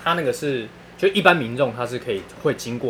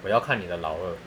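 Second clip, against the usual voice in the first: lower, softer deadpan reply; calm doctor; 6 semitones lower, 5 dB quieter than usual. Retold or imitated. Doctor calmly answering the startled patient, deadpan. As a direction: state it coolly, matter-of-fact. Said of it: "医生就很冷静的讲说".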